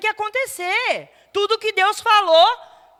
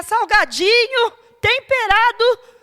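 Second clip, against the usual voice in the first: salgadinho, temperado stretched slow and louder; drawn out, slower; 3 semitones higher, 6 dB louder, slower than usual. Real, not acted. Preacher joking about sweat, slow and drawn out. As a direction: savour each word slowly.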